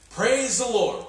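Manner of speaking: high, bright call of Praise the Lord; old lady praising. Retold or imitated. Old lady greets the morning sun, calling up high. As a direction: call it up to the sky.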